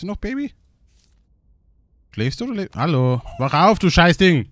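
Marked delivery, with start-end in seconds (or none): 3.4-4.5 loud playful order to wake up; mock angry yell. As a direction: yell at a toy baby. Brüllt das Spielbaby an. (gespielt wütend anbrüllen)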